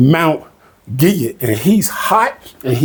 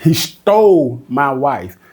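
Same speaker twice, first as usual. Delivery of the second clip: slow angry Laban; slower than usual. Retold or imitated. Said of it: "Laban's just gonna say".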